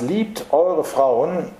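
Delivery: slow, stretched „Liebt eure Frauen“ with eure rising; stress on eure. Shown as a demonstration. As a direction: lean on „eure“, drawn out. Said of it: "in einer dreifachen Betonung lesen". (Betonung auf „eure“, langsam gedehnt)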